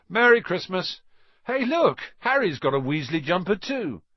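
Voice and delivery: rowdy festive twin; boisterous greeting. Acted. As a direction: burst in shouting good cheer. Twins burst in cheerfully.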